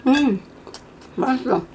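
chewing while talking; muffled through closed lips; mouth full of noodles. Real, not acted. Seen 0: Cheeks full, lips closed chewing right after slurping noodles; thumbs-up.

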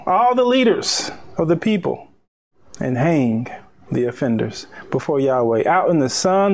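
solemn, deliberate Bible reading; emphatic scripture reading. Acted. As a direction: stretch the key words like a preacher reading. Reads scripture with force.

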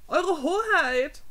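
slow, loud, high plea with a quaver; a hint of a trembling servant pleading. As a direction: stretch it out, voice shaking. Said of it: "Henrys Stimme bebte".

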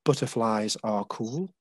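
"butterflies are cool" half-whispered and slow; whispered poem line. Shown as a demonstration. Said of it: "this one is about butterflies".

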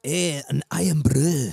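slow, put-on Scottish accent. Shown as a demonstration. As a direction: draw out Irn-Bru with a Scottish accent. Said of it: "That's what this should be".

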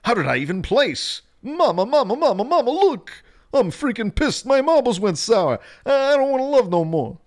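very high, loud, squealing meltdown; hammed-up high-pitched tantrum; frantic squeal. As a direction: shriek it like a kid calling mama. Reading a chat message in voice.

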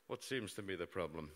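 a hint of a calm bedside doctor; lightly playing the unflappable doctor; doctorly voice. The doctor greets the wounded reporter, lightly doctorly. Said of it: "in a true doctorly voice".

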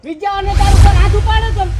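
loud, heated threat; angry challenge. Acted. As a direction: dare him angrily. Tenant challenges landlord.

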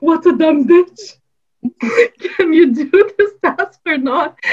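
a hammed-up nasty boss voice; rude boss. Boss insults her, retold.

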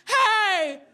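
very high, loud, drawn-out holler; shouted out loud. Acted. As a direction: call out to the whole room, stretching it long. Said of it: "I just said out loud to no one".

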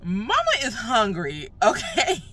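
talking with a numb face; numb mouth. Real, not acted. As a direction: speak through a numb, swollen cheek. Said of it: "that's why I'm gonna be sounding crazy in this video".

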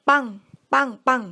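imitated bang bang bang; spoken gunshot sounds. A narrator's reading. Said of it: "เสียงปืนดังขึ้นสามนัด". (เลียนเสียงปืนสามนัด)

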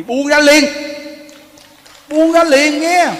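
urgent preacher's command to let go; urging let go. Real, not acted. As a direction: press hard on buông ra liền, insisting. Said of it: "nghe Pháp rồi nghe quý vị".

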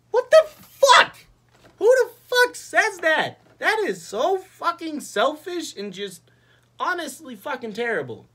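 outraged shouting. Real, not acted. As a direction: yell in appalled disbelief, stretching the words. Outraged rant at selfish line.

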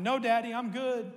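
a son insisting he's fine, squealed; mock kid scream. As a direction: son in the back seat yelling at dad, a hammed-up high yell. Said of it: "as he's screaming".

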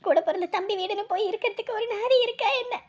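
crying through the words; tearful. Acted. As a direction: choke up as she speaks. Wife crying to friend.

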